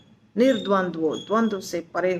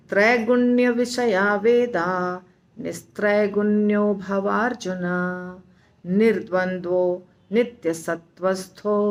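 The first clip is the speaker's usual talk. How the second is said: model recitation. Shown as a demonstration. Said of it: "दो बार उच्चारण करके दिखाती हूँ". (धीमा, स्पष्ट श्लोक पाठ)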